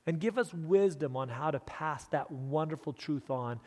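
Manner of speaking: hushed, earnest prayer falling away at phrase ends; sincere prayer. Real, not acted. Preacher thanking Heavenly Father for his congregation, sincere prayer. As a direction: pray softly and gratefully to God.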